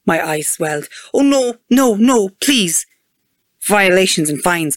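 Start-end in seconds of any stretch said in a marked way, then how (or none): 1.1-2.9 higher, louder dismayed protest; dismayed pleading. A narrator's reading. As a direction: beg in alarm not to be fined. Narrator voices driver begging off a fine.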